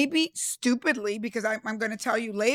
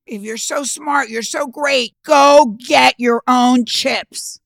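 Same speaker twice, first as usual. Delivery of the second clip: boss's slow put-down ending in a loud bark; mock stern boss scolding a young employee; dismissive boss; 6 dB louder, slower than usual. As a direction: lecture her slowly, then hammer the last line. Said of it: "And he said".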